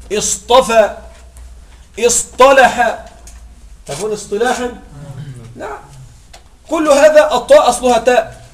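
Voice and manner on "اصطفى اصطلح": slow drill. Shown as a demonstration. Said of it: "teacher drills the verb".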